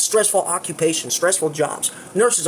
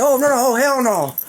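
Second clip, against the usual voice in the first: retold panic; 5 semitones higher, 3 dB louder than usual. Retelling the panic at the blood.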